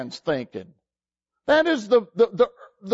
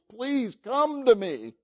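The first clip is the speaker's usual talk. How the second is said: tender plea; 3 semitones higher, 4 dB quieter than usual. Retold or imitated. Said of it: "He says".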